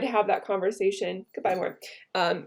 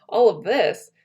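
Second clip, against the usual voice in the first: louder, declaimed Brutus speech; impassioned Shakespeare recital; 3 dB louder than usual. Acted. Teacher reading Brutus's rebuke to the class, impassioned. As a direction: rouse him with the memory of Caesar.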